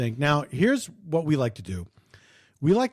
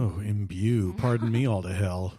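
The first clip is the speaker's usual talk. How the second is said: mock posh indignation; 8 semitones lower than usual.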